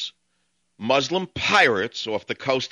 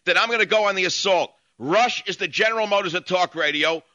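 real indignant tirade, pitched higher; heated rant; 6 semitones higher than usual. Real, not acted. Radio host warning rivals who attack him, heated rant.

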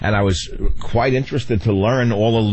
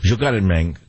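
Spanish gangster accent. Shown as a demonstration. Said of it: "I liked the best was that one".

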